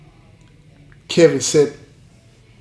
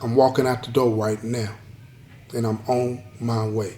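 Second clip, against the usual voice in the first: lower, softer toward the end, gently reassuring; reassuring mother; 4 semitones lower, 6 dB quieter than usual. Retold or imitated. Mother to her crying son on the phone, reassuring. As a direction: reassure a child, settling into a low, quiet promise. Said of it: "And she reassured him".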